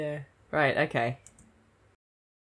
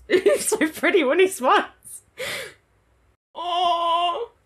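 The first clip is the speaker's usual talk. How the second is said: giggly gush; 12 semitones higher, 4 dB louder, slower than usual. Real, not acted. Fan gushing over character's smile.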